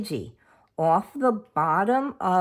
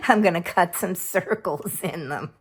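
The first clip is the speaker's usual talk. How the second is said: real laugh in the voice; giggling at your own slip while talking; amused. Real, not acted. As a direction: chuckle through a self-correction.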